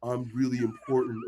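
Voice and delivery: mumbled, soft, half-hearted affirmation; half butt statement. Retold or imitated. Mocking a lazy affirmation in the mirror, soft and half-hearted. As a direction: say it like you don't believe it. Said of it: "you give some half butt statement".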